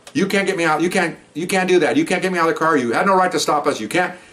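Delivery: high, mock indignant woman's voice; imitating indignant woman. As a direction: pitch it up like her protest. Woman resisting arrest, quoted.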